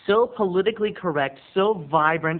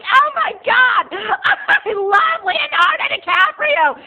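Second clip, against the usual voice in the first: high, loud, slow fangirl shriek; screaming fangirls; 8 dB louder, slower than usual. Retold or imitated. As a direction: shriek like a crowd of teen girls. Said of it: "twelve-year-old girls were like".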